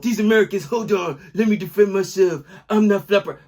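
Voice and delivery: put-on Brazilian accent; hammed-up Brazilian action-movie accent; Neymar impression. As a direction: protest in a mock Brazilian accent. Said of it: "That's my Neymar impression".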